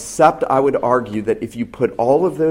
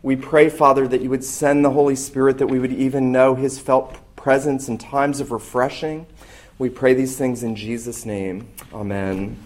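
hushed, reverent closing prayer. Acted. Pastor praying before the sermon, reverent and hushed.

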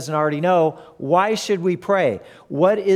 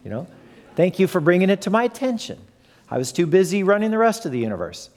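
mock sarcastic God; 2 semitones higher, faster than usual. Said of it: "and God says".

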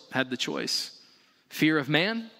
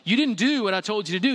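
faster, a touch of scolding king; disappointed Pharaoh; 5 semitones higher, 3 dB louder, faster than usual. Retold or imitated. Pharaoh scolding the midwives, mildly disappointed. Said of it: "disappointed in them".

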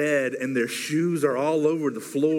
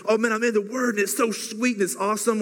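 higher, gushing and giddy; bubbly, higher imitation of spiritual high; giddy mock excitement; 5 semitones higher than usual. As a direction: gush like a new convert. Mimicking giddy reader after conference.

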